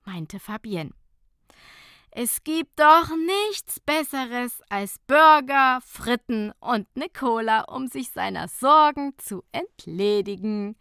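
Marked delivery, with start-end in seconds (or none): 2.1-10.8 chewing while talking. A narrator's reading. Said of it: "sagte Nicola kauend".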